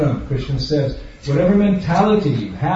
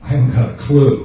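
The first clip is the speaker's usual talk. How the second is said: clueless dad; 4 dB louder than usual. Retold or imitated. Father admits no plan.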